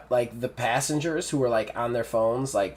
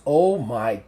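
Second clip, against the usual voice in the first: mildly frightened Aubrey, louder on GOD; a little scared; 7 dB louder, slower than usual. Acted. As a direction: act a touch of alarm at a strange sight. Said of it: "Aubrey's a little bit scared".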